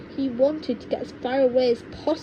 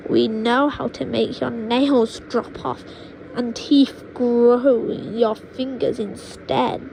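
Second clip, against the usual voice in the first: slow, louder menacing boast; witch grandma boasting; 4 dB louder than usual. Acted. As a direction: savour each dark word.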